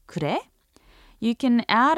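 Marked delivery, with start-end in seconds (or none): 0.1-0.4 그래 asked with a rising tune; rising question. Shown as a demonstration. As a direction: lift 그래 at the end like a question. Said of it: "should be said with the rising intonation".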